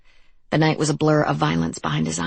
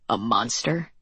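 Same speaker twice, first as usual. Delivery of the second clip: patronizing taunt; 6 semitones lower, 3 dB quieter than usual. Acted. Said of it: "taunted Leo in his patronizing way".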